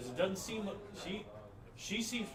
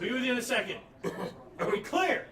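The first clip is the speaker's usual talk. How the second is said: booming magic-boosted voice, higher and louder; magically amplified voice; 7 semitones higher, 7 dB louder than usual. Acted. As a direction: thunder it out with magic. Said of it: "cast Thaumaturgy on my voice".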